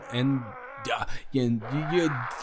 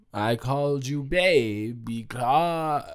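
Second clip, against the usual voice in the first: whisper; 3 semitones lower, slower than usual. Real, not acted. Whispered confession.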